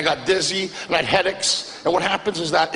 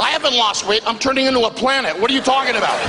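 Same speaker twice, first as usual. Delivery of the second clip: higher, exasperated protest; indignant outburst; 5 semitones higher than usual. Retold or imitated. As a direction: huff it out, offended and amused. Indignant reply to weight comment.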